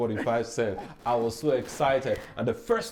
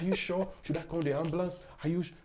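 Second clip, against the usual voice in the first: higher-pitched, softer imitation of a worried stranger; retold shaken concern; 6 semitones higher, 4 dB quieter, faster than usual. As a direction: fret gently, pitched up, as the shaken driver. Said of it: "She was shaking".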